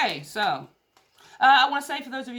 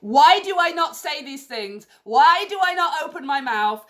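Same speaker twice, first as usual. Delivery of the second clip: higher, louder self-scolding; exasperated; 7 semitones higher, 8 dB louder than usual. Real, not acted. Reader scolding herself to viewers, exasperated and loud. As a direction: cry out at her own silence.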